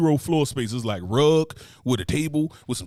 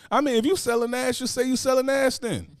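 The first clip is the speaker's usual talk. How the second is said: mocking sarcasm; 10 semitones higher than usual. Real, not acted. Mocking booking information.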